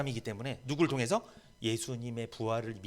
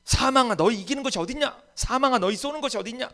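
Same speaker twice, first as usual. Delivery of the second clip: high, loud defiant cry at death; fierce shouted challenge to death; strong defiance; 11 semitones higher, 9 dB louder than usual. Retold or imitated. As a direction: hurl it at death with full force. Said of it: "막 강하게 이야기하고 있죠".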